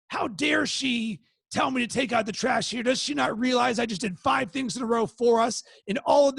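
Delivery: replaying his irritation at the chore request; indignant inner rant. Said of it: "my trigger was a little bit quicker".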